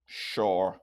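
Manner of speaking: put-on pouting kid agreeing grudgingly; begrudging. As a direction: pout and barely agree. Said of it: "begrudgingly agree".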